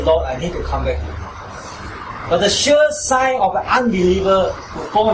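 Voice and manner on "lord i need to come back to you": repentant plea. Retold or imitated. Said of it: "You will surely say".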